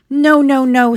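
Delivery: high squeaky no; squeaking. A narrator's reading. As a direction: squeak it out in protest. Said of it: "squeaked Dobby".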